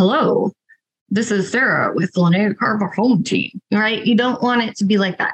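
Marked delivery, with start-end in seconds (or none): 0.0-3.6 formal, salesy, professional phone voice. Coaching someone on how callers should sound, showing the wrong way: professional phone voice. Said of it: "not as you being professional and like".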